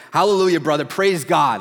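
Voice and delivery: loud, high imitation of a praising churchman; exuberant praise. Colleague answering a compliment from his fellow pastor, loud exuberant praise. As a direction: belt out the praise like an elated believer.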